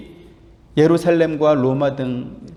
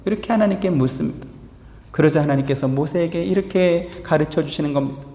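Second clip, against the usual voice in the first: normal talking voice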